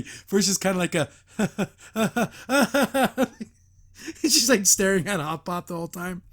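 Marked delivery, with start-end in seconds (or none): 1.9-3.4 a hammed-up villain's cackle, pitched up; imitated maniacal laugh. Imitating Anne leaving the room with a maniacal cackle. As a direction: cackle like a cartoon madwoman. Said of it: "laughing, like, maniacally".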